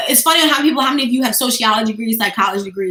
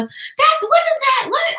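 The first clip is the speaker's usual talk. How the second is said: high-pitched, incredulous questioning; exaggerated "what on earth" reaction; mock disbelief; 13 semitones higher, slower than usual. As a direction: react aghast at a lifeless performance. Mock disbelief at tired hosts.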